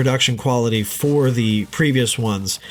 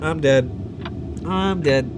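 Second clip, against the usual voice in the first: shocked; 6 semitones higher, slower than usual. Acted. Skit: shock at messages.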